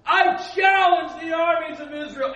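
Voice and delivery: slow, huge roaring giant voice at the top of the lungs; booming Goliath. Acted. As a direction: bellow the challenge like a giant warrior. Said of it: "it's better if I do it this way".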